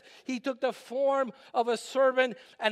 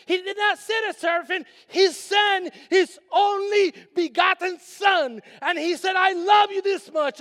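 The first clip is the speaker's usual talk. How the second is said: loud, high, repeated pulpit shouts; preaching shout; 8 semitones higher, 6 dB louder than usual. Acted. Pastor shouting how God sent his Son to the congregation. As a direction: shout each line louder.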